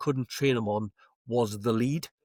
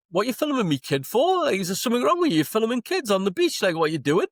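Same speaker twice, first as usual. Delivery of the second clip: higher, louder indignant retort; retold angry comeback; 8 semitones higher, 4 dB louder than usual. He confronts the woman filming him, with a louder, higher angry retort. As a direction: turn the accusation back on her. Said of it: "I was going like".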